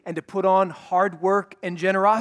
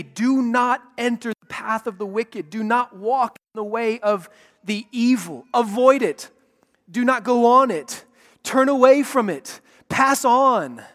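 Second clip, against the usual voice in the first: a father's stern warning, louder and higher; urgent father; 5 semitones higher, 7 dB louder than usual. Acted. Dad warning his son away from the wicked, stern and loud. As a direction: warn him off like a desperate dad. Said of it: "a dad speaking to his son, trying to muster up all of the seriousness and urgency".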